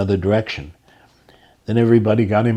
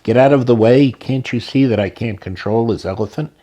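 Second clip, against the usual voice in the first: shouting; 4 dB louder than usual. Retold or imitated. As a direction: bellow a warning while losing control. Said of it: "a mahout shouting".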